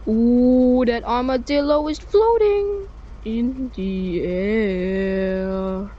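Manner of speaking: slow, drawn-out wonder; slow amazed. Real, not acted. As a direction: marvel at it slowly. Armadillo floats.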